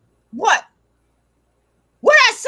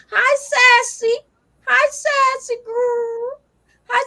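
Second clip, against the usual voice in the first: higher, slow cooing hello; sweet dog greeting; 5 semitones higher, much slower than usual. Real, not acted. Owner greeting her dog Sassy on live stream, slow sweet coo.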